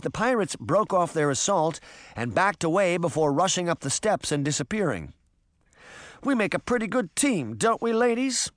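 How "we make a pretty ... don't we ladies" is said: high, pleased crowing. A narrator's reading. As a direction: crow over a team victory. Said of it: "Bess crowed".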